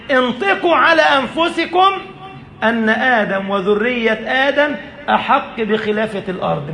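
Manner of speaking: high, laughing exclamation; elated preacher's cry; excited. Acted. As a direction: burst up high with delight. Preacher voices God's questioning.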